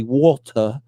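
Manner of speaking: "Water" in a put-on accent, r dropped at the end; mimicking the kid's accented "Water"; child's accent. Shown as a demonstration. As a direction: say "Water" as "wol-tuh", accented. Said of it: "when you say it, you say".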